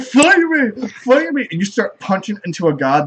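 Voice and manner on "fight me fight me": put-on high sloppy drunken shouting; drunk picking a fight. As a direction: yell like a sad drunk. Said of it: "the most depressingly drunk person".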